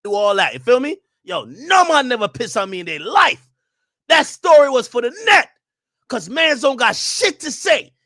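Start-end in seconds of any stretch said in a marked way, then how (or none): 1.2-7.9 loud, high Jamaican accent, slowing at the end. Shown as a demonstration. Jamaican accent as a rule-book demo for chat. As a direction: give it the full Jamaican accent. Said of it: "when Jamaicans talk, they go like this".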